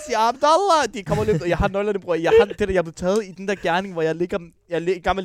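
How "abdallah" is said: high-pitched retold yell of a name; imitated father's shout. Father interrupting his son's excuse, mock shouting. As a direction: call the name out sharply, pitched up. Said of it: "Og så råber han".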